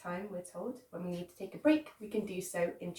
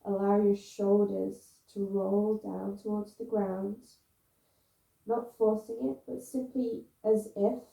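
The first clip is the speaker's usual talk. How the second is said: guided relaxation; 6 dB louder than usual. Real, not acted. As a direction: coax them to let go, phrase by phrase, with long pauses. Guides students down into pose.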